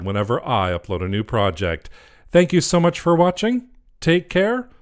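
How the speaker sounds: loud, lilting host delivery, stretched greeting and farewell; upbeat sign-off to viewers. Acted. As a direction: project a big cheery video outro.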